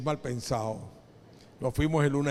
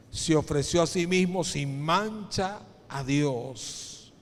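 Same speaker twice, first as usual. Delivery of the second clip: slow, emphatic reading from the pulpit; scripture reading; slower than usual. Acted. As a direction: read the verse out slowly, phrase by phrase. (lectura bíblica solemne y pausada)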